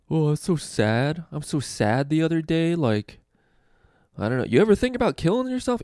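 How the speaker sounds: high, whiny put-on comic voice; mocking mopey comic. Newer comic talking about being sad, whiny parody. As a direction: parody a newbie milking a sad joke.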